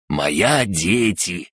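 slow, proud broken speech; snappy clicking crab. Acted. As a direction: proudly answer like the crab gnome. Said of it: "гордо ответил крабогном".

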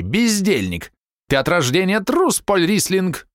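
high, stabbing angry shouts; wife berating her husband before guests; furious wife. A narrator's reading. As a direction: cut him down with every word. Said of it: "голос колол, словно ржавый клинок".

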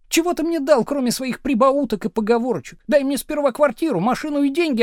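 high, loud reproachful tirade; bitter wife ranting. A narrator's reading. Wife reproaching husband for her wasted life, high and loud. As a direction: pour out years of resentment.

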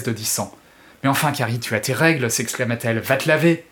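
dramatic audiobook reading; expressive French audiobook narration; story narration. A narrator's reading. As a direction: read the novel like a storyteller. Reads Stephen King excerpt aloud.

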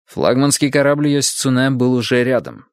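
ordinary delivery

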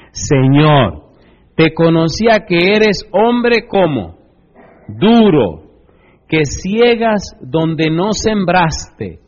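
loud, very slow bitter accusation; accusing servant. Acted. The wicked servant confronting his lord, loud and slow. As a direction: drag each word out at the master.

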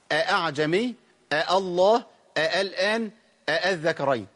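each word opened on two separate catches, آ أعجمي, آ الله; original double hamza. Shown as a demonstration. Teacher giving the words' original form, both hamzas sounded. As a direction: keep both hamzas distinct in آ الآن, آ الذكرين. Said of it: "أصل الكلمات دول إيه".

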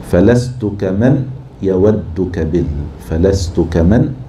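فلست كمن يودك بال said slowly to the beat; slow scanning of the foot; metre scanning. Shown as a demonstration. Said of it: "مفاعلة".

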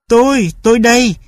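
high, eager little dog voice; a dog announcing itself happily; Bim the dog. A narrator's reading. Bim at the door answers the woman, eager and high. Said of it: "Bim nói".

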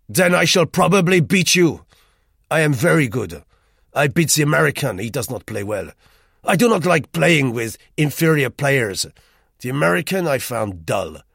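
put-on loud, high, boastful French-accented man; Rue, arrogant Frenchman. A narrator's reading. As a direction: brag about his billiards to the narrator. Voices Rue in story.

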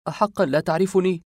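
high-pitched, incredulous question; astonished disbelief. A narrator's reading. Narrator to the man who doesn't recognise him, stunned disbelief. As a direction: ask as if you can't believe your eyes. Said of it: "سألته بدهشة من لا يصدق ما يرى".

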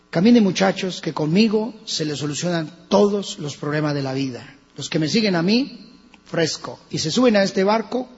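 lightly voiced breezy sales pitch; mock cruise salesman Jesus. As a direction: sell discipleship like a luxury cruise. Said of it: "Él no les dijo".

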